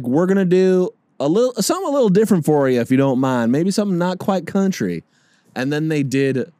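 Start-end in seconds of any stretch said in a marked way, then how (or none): 0.0-5.0 quoting the band. Retold or imitated. Country act introducing cover.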